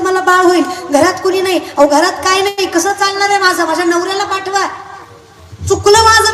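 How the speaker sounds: उंच आवाजात रडवेली विनवणी; देवापुढे गयावया करणारी बाई; विनवणी करणारी बायको. Acted. नवऱ्यासाठी देवाकडे विनवणारी बायको. (नवरा परत मागणारी बायको, उंच केविलवाणी विनवणी)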